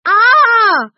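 shrill, loud monster shriek; grotesque monster voice. A narrator's reading. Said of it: "said the monster".

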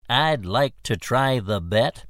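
lightly voiced scrawny little man; a hint of a small squeaky voice; tiny squeaky voice. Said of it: "he said in a tiny, squeaky voice".

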